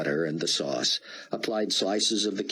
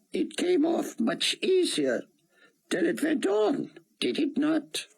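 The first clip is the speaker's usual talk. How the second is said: put-on higher, heavy Hebrew-accented rabbi; thick Hebrew accent. A narrator's reading. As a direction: speak English through a thick Hebrew accent. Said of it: "in his thick Hebrew accent".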